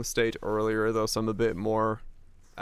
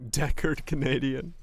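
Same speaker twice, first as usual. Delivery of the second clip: put-on Canadian accent; 4 semitones higher than usual. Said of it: "The highest form of Canadian".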